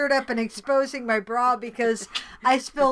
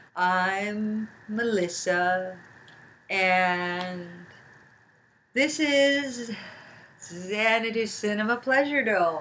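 play-acted tipsy, mellow drawl, very slow; 3 semitones lower than usual. Introducing the show as Melissa would when drunk: Melissa drunk impersonation. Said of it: "That's my Melissa drunk impersonation".

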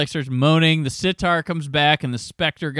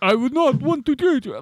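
put-on old-horror vampire accent, very high pitched; 10 semitones higher than usual. Retelling how an angry man answered Laura, sounding like Bela Lugosi playing Dracula. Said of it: "he sounds like Bela Lugosi playing Dracula".

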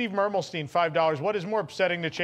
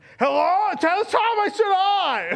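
put-on very high, slow, drawn-out drunken hollering; 14 semitones higher, 7 dB louder than usual. Retelling a drunken phone call: imitating someone screaming. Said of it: "he's just screaming".

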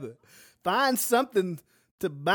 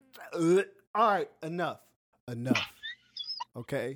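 calm, no-nonsense, stern settling voice; 4 semitones lower, 4 dB quieter than usual. Telling the other speaker to stop going off topic: calm but stern voice. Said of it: "the voice you use with Sabrina".

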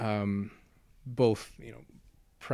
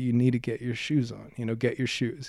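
imitated raised, louder voice. Retelling telling a three-year-old to get shoes on: imitating own raised voice. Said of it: "don't raise your voice".

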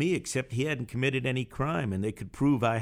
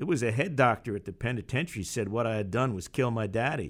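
ordinary delivery, nothing marked

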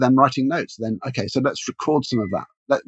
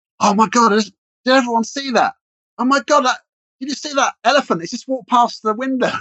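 very high, convincing put-on sudden astonishment; 11 semitones higher, 3 dB louder than usual. Retelling how a trainer pretends to see an elephant: imitating convincing fake amazement. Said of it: "and he's so convincing".

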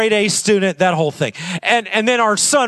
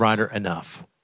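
soft half-whisper right into an ear; 11 semitones lower, 8 dB quieter than usual. Retelling how the dad bent down to the boy's ear: retelling a half-whisper. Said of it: "I whisper in his ear".

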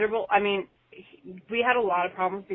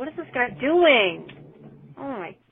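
loud, high-pitched, angry outburst; 5 semitones higher, 5 dB louder than usual. A caller leaving a podcast message while driving, reacting to another driver: road rage. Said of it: "I have road rage".

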